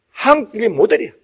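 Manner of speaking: ordinary delivery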